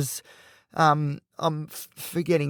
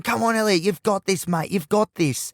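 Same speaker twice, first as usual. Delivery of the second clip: higher-pitched retold pep talk; lightly voiced encouraging teenager; cheering on; 4 semitones higher than usual. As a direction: egg a mate on from the sidelines. Voices his teenage part cheering.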